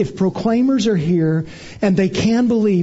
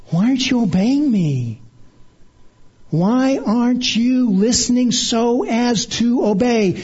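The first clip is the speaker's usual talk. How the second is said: mother's rebuke; 4 semitones higher than usual. Retold or imitated. Mother voiced scolding child.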